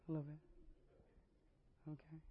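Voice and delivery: slow, soft teasing echo. Acted. Preacher teasing the worship team, slow and soft. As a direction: drag it out, ribbing them.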